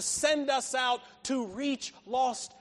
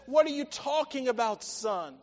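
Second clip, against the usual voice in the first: firm, projected question to a son; emphatic challenge. Acted. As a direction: press the question, dropping on "son". Father challenges son, first take.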